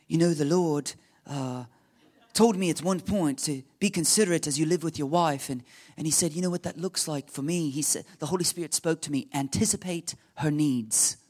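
put-on amateurish English accent, unhurried; bad British accent. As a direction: imitate an English friend with a shaky British accent. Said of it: "my really bad British accent".

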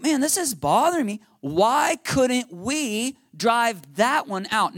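imitating puzzled frustration, words stretched out; bothered. Disciples asking Jesus later why they failed, bothered. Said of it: "it's bothering them".

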